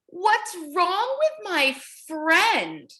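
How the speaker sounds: slow, worried asking; worried penguin. Acted. Penguin asks grandpa about his sick friend, slow and worried. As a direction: plead slowly for help. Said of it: "the penguin asked his grandpa".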